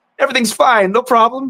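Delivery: high, sunny, carefree, cheery upbeat voice. Describing three characters they voiced, the speaker demos the higher, cheerful one. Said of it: "the higher up and kind of cheerful one".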